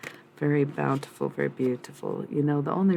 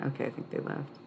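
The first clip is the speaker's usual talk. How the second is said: whisper; 6 dB quieter than usual. Real, not acted. Whispers after commenters left.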